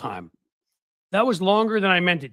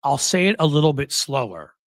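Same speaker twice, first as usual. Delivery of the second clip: measured retort; 5 dB louder than usual. Retold or imitated. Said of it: "She's like".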